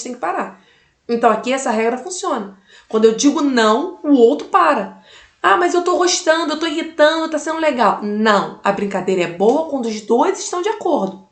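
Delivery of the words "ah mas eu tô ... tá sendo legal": higher-pitched, lightly acted objection; mock kid's complaint; imitated protesting child. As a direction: protest like a child who wants the game to continue.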